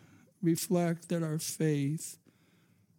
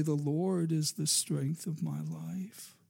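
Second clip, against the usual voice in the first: softer, calm statement of trust; quiet confident declaration; 2 semitones lower, 4 dB quieter than usual. Shown as a demonstration. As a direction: say it as settled faith, softly. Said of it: "when you say".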